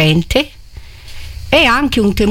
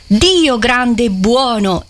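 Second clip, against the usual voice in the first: awed exclamation; 4 semitones higher, slower than usual. Acted. Cardinal's exclamation in reading.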